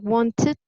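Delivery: "wanted" in two syllables, ending in id; sounded -ed vowel. Shown as a demonstration. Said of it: "We're going to pronounce the, the vowel".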